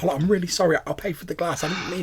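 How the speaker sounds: high, flustered rush of apology; words tumbling over. Acted. Worried fan fears police being called, flustered and high. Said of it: "her words are tumbling over".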